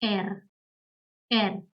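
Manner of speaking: "er" as the German name of R; German letter name. Shown as a demonstration. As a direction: say "er" with an open e, like air. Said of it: "is pronounced as".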